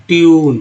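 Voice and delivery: ट्यून stretched on its ee-oo glide; slow demonstration of ट्यून. Shown as a demonstration. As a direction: draw out the vowel in ट्यून. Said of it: "ई यू के रूप में".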